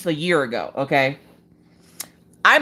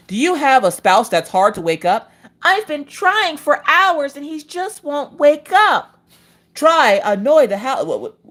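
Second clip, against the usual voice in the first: hammed-up infomercial host; 8 semitones higher than usual. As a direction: pitch it like a late-night ad. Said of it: "I need an infomercial for this".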